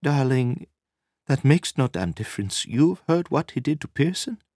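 high woman's voice, warning her man; insistent woman. Acted. Narrator voices Nina warning him.

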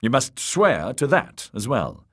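high, urgent, pressing demand; insistent. A narrator's reading. Templeton demanding an oath from Littlefinger, insistent. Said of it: "insisted Templeton".

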